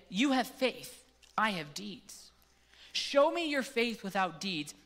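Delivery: measured, earnest Bible reading; scripture reading. Acted. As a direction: read the passage like it matters to the room. Reads James chapter two aloud.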